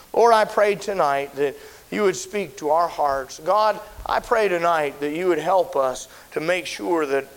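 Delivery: earnest pastoral prayer, steady cadence; heartfelt pulpit prayer; closing prayer. Acted. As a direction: pray over the congregation with conviction.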